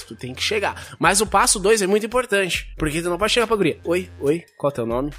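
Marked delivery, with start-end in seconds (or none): 3.8-5.1 mumbled, awkward "Oi, oi, qual é o teu nome?"; the flat, timid way not to ask "qual é o teu nome"; a clumsy, offhand hello; wrong way to approach. Shown as a demonstration. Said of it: "Não é assim".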